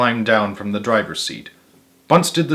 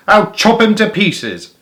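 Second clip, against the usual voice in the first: higher, slow threatening call; menacing threat; 8 semitones higher, 3 dB louder than usual. A narrator's reading. Bunce threatens the fox, higher and slow. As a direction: relish the threat. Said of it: "shouted Bunce".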